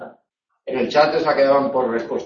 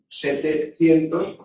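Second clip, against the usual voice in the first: setecientos said slowly, leaning on cien; stress on cien; slower than usual. Shown as a demonstration. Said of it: "la E solo se diptonga cuando está acentuada".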